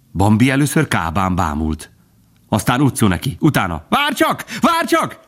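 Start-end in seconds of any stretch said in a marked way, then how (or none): 3.9-5.2 much higher joyful calling out; happy call. A narrator's reading. Bambi chasing Faline, calling out happily. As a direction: call after her, delighted. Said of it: "kiáltott boldogan".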